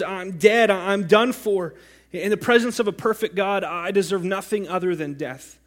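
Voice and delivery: loud, high, desperate; Isaiah sure he is about to die; despairing cry. Acted. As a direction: shout it as a doomed man. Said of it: "Isaiah is overwhelmed by his sin".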